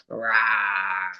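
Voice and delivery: lightly growled T-Rex rah; T-Rex roar. Pretend. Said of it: "that was my impression of a T-Rex".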